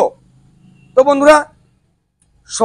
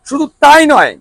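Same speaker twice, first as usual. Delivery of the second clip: booming prize announcer; 4 semitones higher than usual. Acted. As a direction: announce the free offer like a prize. Sales pitch announcing free servicing.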